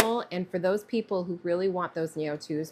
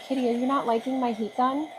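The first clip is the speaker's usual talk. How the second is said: normal talking voice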